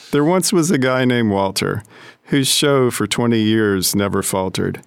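light sing-song verse reading; reciting a limerick. Acted. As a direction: read the limerick with playful rhythm.

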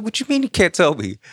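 high, indignant disbelief; pressing the counselor for answers; incredulous. Retold or imitated. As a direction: push the question up high. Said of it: "I was like".

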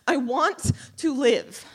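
high, loud, slow plea to live; desperate plea. Acted. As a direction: drag it out, begging with your last air. Final repeated plea after panic.

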